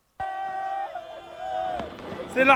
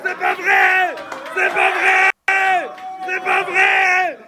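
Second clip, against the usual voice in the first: disbelieving shouts. Real, not acted. Fan in disbelief after win.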